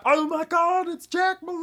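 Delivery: high, loud excited cry; excited crowd gasp. Retold or imitated. Crowd shouting in excitement as Jack Malone appears. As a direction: shout it like a crowd seeing their hero. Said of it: "everybody's like".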